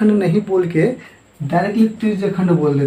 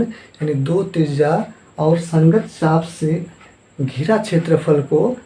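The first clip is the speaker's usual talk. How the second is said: slow restatement; slower than usual. Real, not acted. Teacher restates definition for pupils.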